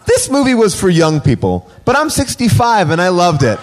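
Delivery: put-on light British accent reading a review. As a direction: read it like an older Brit. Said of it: "Are you doing a British accent?".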